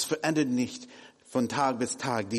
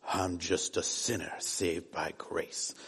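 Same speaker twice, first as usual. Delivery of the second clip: lower, softer pious American English; American accent; 6 semitones lower, 5 dB quieter than usual. Retold or imitated. Preacher quoting churchgoers in a mild American accent. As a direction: lightly put on a holy-sounding American accent. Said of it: "Auch mit dieser Akzent".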